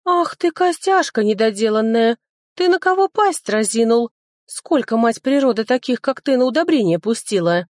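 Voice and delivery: high, loud furious scolding; fairy yelling insults at the sword. A narrator's reading. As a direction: tear into the bony sword. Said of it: "заорала феечка".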